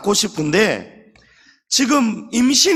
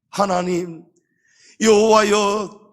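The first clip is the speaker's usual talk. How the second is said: Hannah's earnest prayer; 3 semitones higher than usual. Retold or imitated. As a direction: cry out to God from the heart. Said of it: "한나가 기도한 것이 바로 이런 기도예요". (하나님께 매달리는 간절한 기도)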